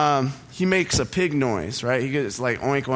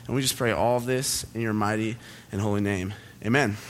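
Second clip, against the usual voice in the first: prayer; 3 semitones lower than usual. Acted. Pastor prays before sermon.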